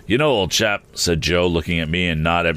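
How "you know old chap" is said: mouth full. Acted. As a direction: bite in his cheek. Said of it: "with his bite still in his cheek".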